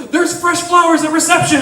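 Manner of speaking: excited shout; coworker yelling out. Retold or imitated. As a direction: call it out to the room. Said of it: "someone yelled out".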